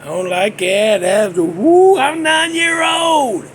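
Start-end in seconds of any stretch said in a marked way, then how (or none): 1.4-3.4 high, drawn-out wail of protest; high-pitched outrage. Real, not acted. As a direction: stretch it out high and slow, aghast. Outraged childhood memory, exclaimed.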